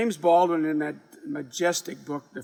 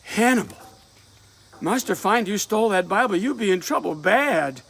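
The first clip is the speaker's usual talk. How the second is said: anxious warning; 5 semitones higher, 5 dB louder than usual. Acted. Sarah warns about the stolen Bible.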